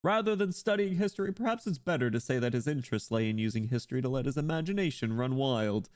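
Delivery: lightly voiced scholarly pope; a hint of a formal church leader; pope character. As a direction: hold forth as a pontiff discussing a predecessor.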